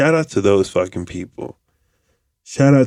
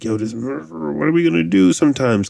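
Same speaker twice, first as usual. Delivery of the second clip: higher, worried partner voice; imitating girlfriend; 6 semitones higher than usual. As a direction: voice the girlfriend fretting over money. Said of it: "She's like".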